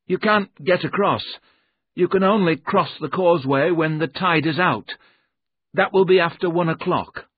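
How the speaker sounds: little man's high, insistent voice; nervous little man. Acted. Jerome's voice explaining the causeway.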